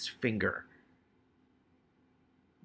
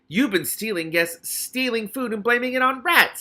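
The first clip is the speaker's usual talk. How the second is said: snapped; 11 semitones higher, 7 dB louder than usual. Acted. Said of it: "snapped Alicia".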